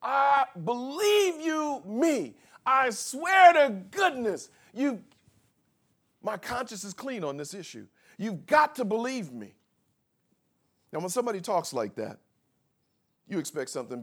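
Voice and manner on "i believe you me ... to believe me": lightly voiced pleading Paul, higher and slow; paraphrasing Paul. Pastor voicing Paul to the church, mild pleading. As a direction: plead to be believed. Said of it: "What is he saying there?".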